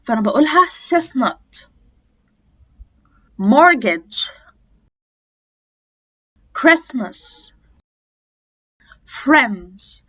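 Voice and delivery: "Christmas" as "Chrismas"; t dropped between consonants. Shown as a demonstration. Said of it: "أنا مش هنطقها".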